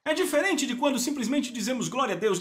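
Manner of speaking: ordinary delivery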